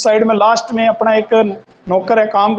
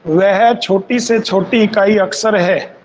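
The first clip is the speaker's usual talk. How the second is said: slow, word by word for note-taking; unhurried teacher dictation; much slower than usual. Shown as a demonstration. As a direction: dictate each phrase slowly so students can write.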